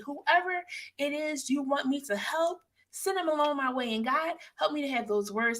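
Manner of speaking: prayer. Acted. Praying aloud to God.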